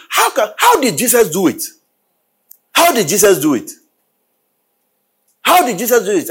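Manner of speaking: high, ringing preacher's call; fervent pulpit questioning; preaching at full force. Acted. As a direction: preach it out to the congregation.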